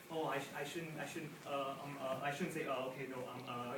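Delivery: a comic losing his nerve mid-sentence; understated imitation of stage fright; mock hesitant. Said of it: "you will not be afraid of".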